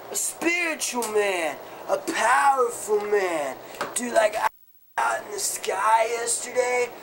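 lightly voiced spaced-out rocker dude; a hint of a dazed stoner musing. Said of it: "you gotta talk like this".

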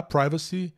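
privacy as "PRAI-va-si"; common pronunciation. Shown as a demonstration. Teacher recommends the most current version, long-I pronunciation. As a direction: say privacy with I like "eye". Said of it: "é a pronúncia mais corrente".

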